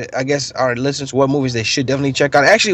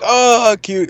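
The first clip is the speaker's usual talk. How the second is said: high-pitched mock gushing; imitated cooing drunk guys; 9 semitones higher, much slower than usual. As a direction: imitate drunk guys melting at something cute. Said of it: "drunk guys reacting to the beginning of Up".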